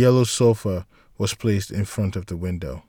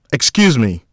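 mild yell; 5 dB louder than usual. Acted. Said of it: "a voice yelled out to Jack".

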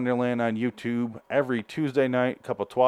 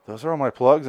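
out of breath; 3 semitones higher, 5 dB louder than usual. Real, not acted. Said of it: "I'm out of breath now".

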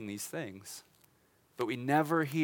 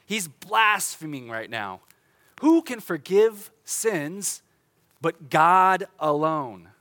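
louder, slow indignant objection; indignant scribes; 6 dB louder, slower than usual. Retold or imitated. Preacher voicing offended scribes, indignant and louder. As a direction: scribes protesting, louder and slowing to outrage. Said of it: "They say things like".

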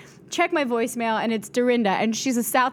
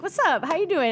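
a touch higher, slightly starstruck reply; starstruck echo; 7 semitones higher than usual. Retold or imitated. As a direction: echo it back, a little dazed. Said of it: "I'm like".

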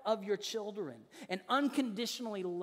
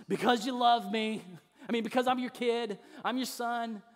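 louder, lightly imitated child's reply; kids' knowing answer; 3 semitones higher, 5 dB louder than usual. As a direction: recite it back like kids who know it by heart. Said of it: "That's how they say it now".

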